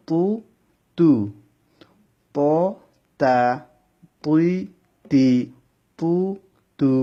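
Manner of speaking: "প" and "তুই" heavy, "তা" and "তি" light; letter drill. Shown as a demonstration. Teacher drilling heavy and light letters for students. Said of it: "পু মোটা হবে".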